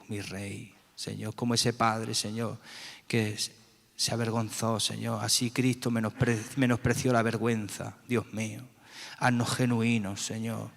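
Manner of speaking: earnest spoken prayer, calling on God after each phrase; fervent prayer. Real, not acted. Leading the congregation in prayer, earnest and pleading. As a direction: pray with your whole heart, pleading.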